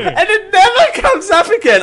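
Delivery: high squealing laugh through words. Real, not acted. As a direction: cackle the punchline. Laughing joke.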